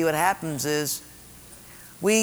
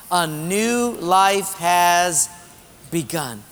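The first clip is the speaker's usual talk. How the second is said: slow, measured group recitation; scripture read aloud; slower than usual. Acted. Pastor leading congregation in Second Corinthians, measured reading aloud. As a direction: lead the congregation slowly through the verse.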